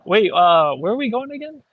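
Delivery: breathless question; winded, gasping between words; out of breath. Real, not acted. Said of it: "out of breath from climbing stairs".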